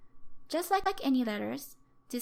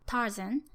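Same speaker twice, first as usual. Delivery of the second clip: Tarzan with TAR longer and higher than zan; English word stress. Shown as a demonstration. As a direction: lengthen and lift the first syllable of Tarzan. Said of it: "first syllable tar is longer and higher in pitch".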